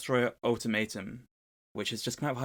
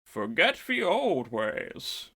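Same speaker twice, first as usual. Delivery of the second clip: slow, loud robotic voice; mechanical voice; 4 semitones higher, 4 dB louder, much slower than usual. Acted. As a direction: drag it out like a machine. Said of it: "a mechanical voice behind her goes".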